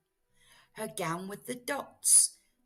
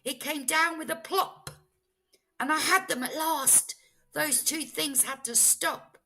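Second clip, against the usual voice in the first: high, loud and triumphant; high loud excited telling; 8 semitones higher, 7 dB louder than usual. A narrator's reading. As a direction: crow it out in triumph. Triumphant capture.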